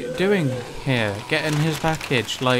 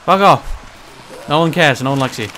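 angry yelling; 5 dB louder than usual. Real, not acted. Yelling at zombie.

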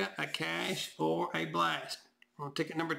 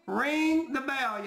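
excited; 6 semitones higher, much slower than usual. Real, not acted. Celebrating the win.

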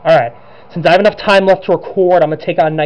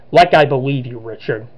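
Luigi; 4 semitones lower than usual. Acted. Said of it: "make it sound like Luigi had an evil".

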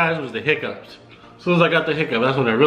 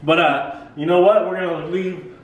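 laughing while talking; 7 semitones higher than usual. Real, not acted. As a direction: talk through the giggles.

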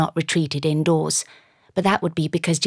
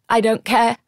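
raised, cracking voice on the edge of tears; heroine's voice cracks as she defies the gentleman; 6 semitones higher, 4 dB louder than usual. A narrator's reading. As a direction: let the voice break as she protests. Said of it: "my voice cracked".

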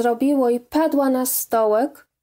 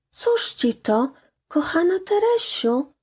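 sweet voice; 6 semitones higher than usual. A narrator's reading. Mother gently asking her crying daughter, sweetly. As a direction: coax her daughter tenderly. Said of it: "rzekła do niej słodkim głosem".

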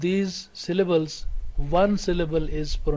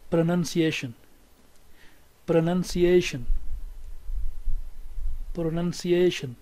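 "pronunciation" with main stress on "ation". Shown as a demonstration. Teacher shows students where primary stress falls, stress on -ation. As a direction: say "pronunciation", leaning on the second-last syllable "a". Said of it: "primary stress here, ation".

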